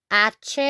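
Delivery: "H" named as AH-cheh; Spanish letter name. Shown as a demonstration. Teacher naming the letter for learners, "H" as AH-cheh. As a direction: say "H" as Spanish hache, silent h. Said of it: "in Spanish".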